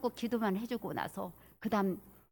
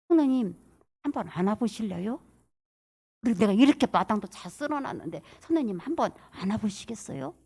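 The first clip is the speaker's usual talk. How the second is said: usual speaking voice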